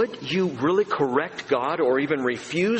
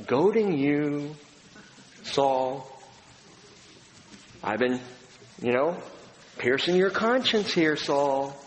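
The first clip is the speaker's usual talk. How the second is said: compassionate Jesus; 2 semitones higher than usual. Retold or imitated. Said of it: "the compassion of Jesus dealing with Saul".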